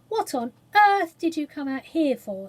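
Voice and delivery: calling out to the cook in the sea; lightly shouted question; mild shout. A narrator's reading.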